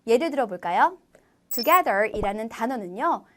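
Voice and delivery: ordinary delivery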